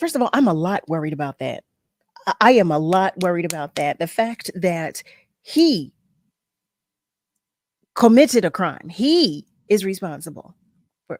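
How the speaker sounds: agitated, fired-up rant at full intensity. Answering another speaker about a worry: worked up, all the way on ten. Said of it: "I'm all the way on ten".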